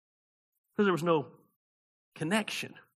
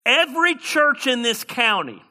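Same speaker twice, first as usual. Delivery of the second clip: building to a climax; 8 semitones higher, 6 dB louder, slower than usual. Acted. Preacher repeats the phrase, climax.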